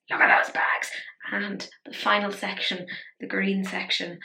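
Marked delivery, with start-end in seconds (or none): 0.1-0.9 whispered mock sob on Look at those bags; fake-cry Look at those bags. Shown as a demonstration.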